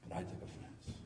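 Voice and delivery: breathy whisper, almost no voice; whispered confession. Real, not acted. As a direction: let it slip out in a whisper. Confessing a violent fight.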